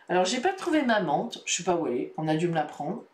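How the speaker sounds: talking between sips; words right after a sip; while sipping a drink. Real, not acted. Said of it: "je bois un petit coup".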